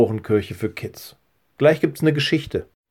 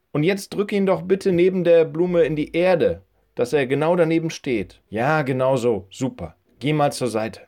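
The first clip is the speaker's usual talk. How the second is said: put-on high old lady voice giving orders; an old woman putting the boy to work; higher old woman's voice, brisk and practical; bossy old woman; 4 semitones higher than usual. Old woman guides Joel.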